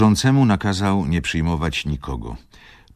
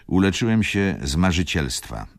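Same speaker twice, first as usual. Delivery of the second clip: high, loud, emphatic doctor; Schumann exclaiming; 7 semitones higher, 5 dB louder than usual. A narrator's reading. Schumann boasts of curing himself, exclaiming. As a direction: proclaim it high and loud, easing at the end. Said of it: "zawołał Schumann".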